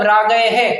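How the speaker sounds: राग है with a fully sounded है; overstressed visarga. Shown as a demonstration. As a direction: pronounce the final h as a full "है". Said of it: "ऐसा पढ़ ले अपन".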